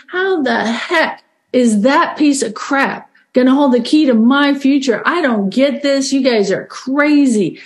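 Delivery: mock disbelief, key words stretched out; incredulous. Newcomer inwardly protesting the sponsor's list, incredulous. Retelling own disbelieving inner reaction.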